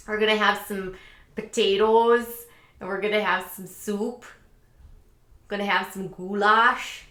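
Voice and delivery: hammed-up Midwest talk with long round vowels; exaggerated Midwestern accent. Vlogger joking about potluck food, exaggerated Midwestern accent. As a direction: lay the Midwestern accent on thick. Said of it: "I'm just exaggerating".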